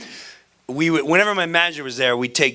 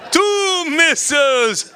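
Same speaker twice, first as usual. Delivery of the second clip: mock incredulous; 13 semitones higher, 3 dB louder, much slower than usual. Mocking punchline, comic drawn out.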